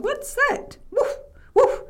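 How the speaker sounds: high-pitched alarm breaking into barks; startled dog. Acted. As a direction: yelp it as a frightened dog.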